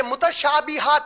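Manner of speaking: متشابہات spelled out slowly, syllable by syllable; متشابہات drawn out like a teacher; slow careful pronunciation. Shown as a demonstration. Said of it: "دیکھیں،".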